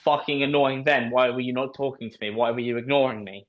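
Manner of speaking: warped voice memo. Real, not acted. Voice memo warped lower, ranting.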